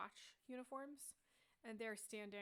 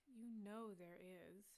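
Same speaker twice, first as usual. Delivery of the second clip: exasperated guard; slower than usual. Acted. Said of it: "rolls his eyes and he says".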